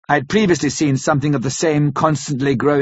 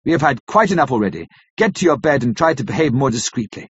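stern. Acted. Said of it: "I said sternly".

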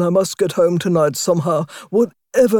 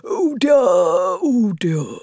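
mock sobbing lament; much slower than usual. Toad faking tears for the driver, slow mock sobs. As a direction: wail it like a ham actor. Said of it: "lamented Toad".

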